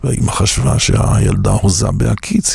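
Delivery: ordinary talk, nothing marked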